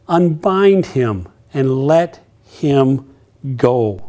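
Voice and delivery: Unbind stretched out, very slow. Shown as a demonstration. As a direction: savour the command word by word.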